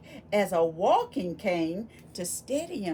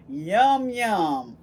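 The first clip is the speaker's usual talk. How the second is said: playful yum; 8 dB louder than usual. Acted. Playful yum then whispered aside.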